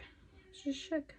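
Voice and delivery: softly mocked shock; put-on voice. Shown as a demonstration. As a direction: replay it in a dazed little voice.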